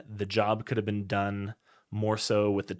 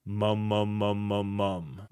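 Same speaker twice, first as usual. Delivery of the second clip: dopey mum; slower than usual. Shown as a demonstration. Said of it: "the syllable for this is gonna be a mum".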